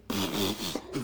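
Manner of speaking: short snorting bursts of nose-blow; imitated nose-blowing. Son imitating dad in the woods, noisy nose-blow. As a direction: imitate a honk into a handkerchief. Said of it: "blow his nose".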